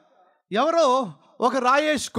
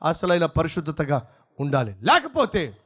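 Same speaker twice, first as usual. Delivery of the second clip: rising, shouted peaks, then low falls; fiery preaching; 3 semitones lower than usual. Acted. Preacher challenges the congregation in fiery preaching.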